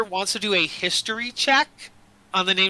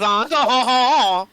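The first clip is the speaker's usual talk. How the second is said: higher, louder mock-French laugh; 5 semitones higher, 5 dB louder, much slower than usual. Shown as a demonstration. Game master proving the accent to players, mock French laugh. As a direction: show off a stagey French chortle. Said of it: "this is the French accent".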